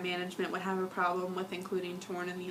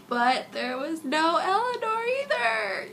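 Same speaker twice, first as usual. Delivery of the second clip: mock crying; 11 semitones higher, 5 dB louder, slower than usual. Mock grief over missing girlfriend.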